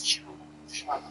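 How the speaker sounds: "Janet" with an H put into it, as if English; English-style Janet. Shown as a demonstration. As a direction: soften the J of "Janet" towards "sh". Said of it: "that's how they say it in, in England".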